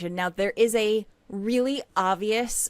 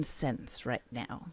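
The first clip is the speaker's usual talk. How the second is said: whispered aside; whispering; 8 semitones lower, 13 dB quieter, slower than usual. Real, not acted. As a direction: drop to a whisper. Confiding aside mid-plot.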